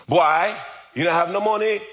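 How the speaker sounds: imitated mother. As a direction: play the mother setting her boy straight. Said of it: "my mother said".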